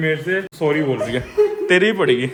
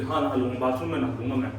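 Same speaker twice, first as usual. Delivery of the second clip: voicing the dog; 6 semitones lower, 7 dB quieter than usual. Voicing the dog's reply.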